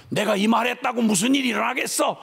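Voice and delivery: normal talking voice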